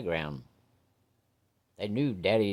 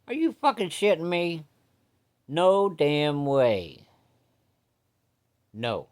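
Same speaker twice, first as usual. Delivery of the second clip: high, loud disbelieving outburst, slowing at the end; a dad losing it over his daughter's date; outraged dad; 6 semitones higher, 3 dB louder, slower than usual. Acted. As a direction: blow up like a furious father. Dad hears daughter's news.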